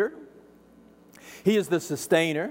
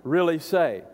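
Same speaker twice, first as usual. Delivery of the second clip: slow, insinuating "did God really say"; snake's honeyed doubt; sly doubting question; much slower than usual. Retold or imitated. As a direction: plant doubt slowly. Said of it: "I want you to notice the tone here".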